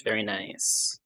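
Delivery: soft breathy whisper. Shown as a demonstration. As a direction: whisper it back. Repeats it whispered.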